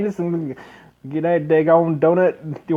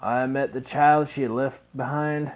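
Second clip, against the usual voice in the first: lightly lowered fatherly voice, solemn; gruff old father; 4 semitones lower than usual. Acted. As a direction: speak as a grieving father making a vow. Narrating father's vow in game.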